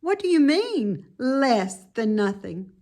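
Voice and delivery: high, earnest piglet voice; baffled little pig asking; puzzled young pig. Acted. Wilbur questioning the lamb, high and puzzled. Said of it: "replied Wilbur".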